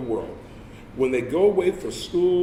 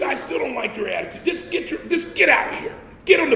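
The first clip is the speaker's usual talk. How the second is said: sergeant yelling; 10 semitones higher than usual. Retold or imitated. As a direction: scream him out the door.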